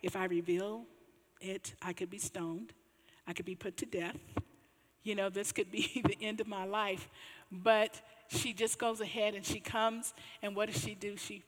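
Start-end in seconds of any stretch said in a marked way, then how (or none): 0.0-7.1 nervous. Retold or imitated. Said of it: "she's probably getting nervous".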